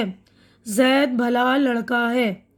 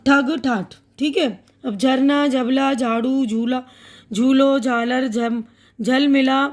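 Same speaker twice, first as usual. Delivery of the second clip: slow and careful. Shown as a demonstration. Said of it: "ठहर ठहर कर बोल दूँगी ना, थोड़ा आराम से".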